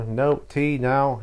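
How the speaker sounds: lightly acted parent laying down the law; firm parent. Mum's retort in acted exchange.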